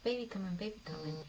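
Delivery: lightly imitated repeated chant; mom-in-law's catchphrase. Imitating mom-in-law's running baby refrain, playful light chant. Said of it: "done this thing where she says".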